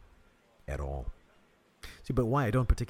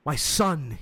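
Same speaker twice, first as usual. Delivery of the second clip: solemn pastor, raised and high; 9 semitones higher, 6 dB louder than usual. Retold or imitated. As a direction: play the worried pastor. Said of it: "he said".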